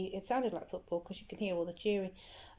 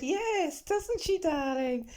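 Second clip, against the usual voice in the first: much higher, louder sugary mum; sweet mother; 9 semitones higher, 6 dB louder, slower than usual. Retold or imitated. The mother agrees with her son, in a high, sugary voice. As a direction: coo it back to the child.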